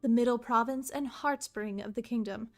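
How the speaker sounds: grand storybook reading; story narration. Acted. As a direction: narrate the history solemnly. Reading game lore aloud.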